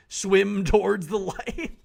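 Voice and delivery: slow, drawn-out and loud, rising on "towards"; dreamy slow call. Acted. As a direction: stretch "towards" into a hypnotic call. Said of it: "Uh, swim towards the light".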